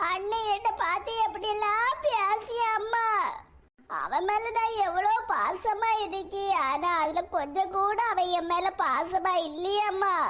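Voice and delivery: slow, weepy grievance; tearful complaint. Acted. Daughter complains to her mother about her brother, slow and weepy. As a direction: complain slowly as if close to tears. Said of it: "எப்படி கதறி கதறி அழுறான்னு".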